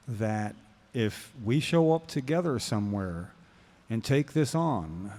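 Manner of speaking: slow, measured and calm; calmly. Real, not acted. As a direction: say it calmly, taking your time. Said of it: "so I'm calmly saying".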